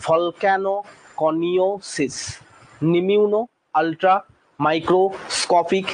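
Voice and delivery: slow drill, each part of নিমিউনো মাইক্রোস্কোপিক held apart; teacher leading choral repetition; say-along drill. Shown as a demonstration. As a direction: lead the class through it part by part. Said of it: "আমার সাথে উচ্চারণ করো".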